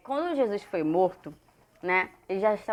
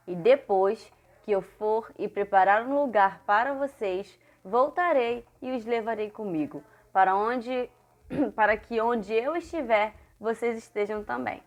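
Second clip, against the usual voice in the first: verse recitation. Acted. Teacher reading Jesus's promise to children, measured recitation.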